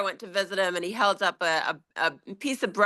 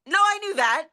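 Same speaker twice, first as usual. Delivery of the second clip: dad voice; 11 semitones higher, faster than usual. Retold or imitated. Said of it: "And he's like".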